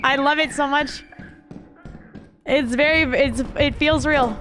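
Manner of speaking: playing the friendly Canadian; Canadian accent. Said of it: "she, the Canadian".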